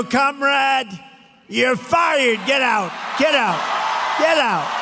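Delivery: loud, high pretend dismissal; mock firing. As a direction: shout it as if firing her on TV. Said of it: "We're gonna go".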